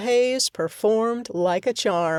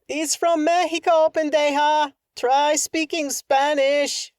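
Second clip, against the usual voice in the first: heckling shopkeeper; 7 semitones higher than usual. Acted. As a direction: call down from the window with scorn. Heckler shouting from window.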